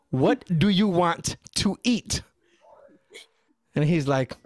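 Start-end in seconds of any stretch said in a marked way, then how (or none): 0.1-2.2 exasperated mom. Retold or imitated.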